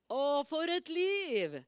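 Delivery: slow, drawn-out cry of wonder; joyful exclamation. Real, not acted. Preacher marvelling aloud to the congregation, drawn out. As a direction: marvel at it slowly.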